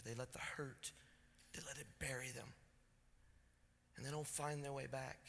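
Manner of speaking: hushed litany. Acted. Preacher lists what buries people, fading to a hush.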